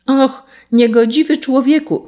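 high, indignant outcry; crying out. A narrator's reading. Sparrow rebukes the carter who killed his friend, crying out. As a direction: call out in reproach. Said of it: "zawołał".

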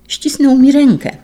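high, loud burst of hope; excited cry. Acted. Boy cries out to the doctor, high and loud. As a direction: cry out that he felt the squeeze. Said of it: "zawołał".

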